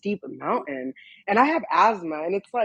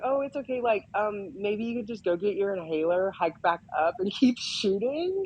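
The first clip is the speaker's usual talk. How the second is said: mock nonchalant. Photographers shrugging off her asthma, mock nonchalant. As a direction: brush it off like it's nothing. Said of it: "they were, like, so nonchalant".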